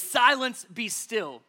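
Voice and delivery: a rebuke that starts high and settles; rebuking. Acted. Jesus to the wind and waves, rebuking. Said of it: "he rebuked the wind".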